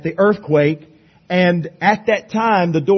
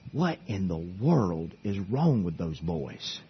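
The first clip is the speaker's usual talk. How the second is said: puzzled jailer; 9 semitones lower, 11 dB quieter than usual. Retold or imitated. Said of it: "That jailer thinking".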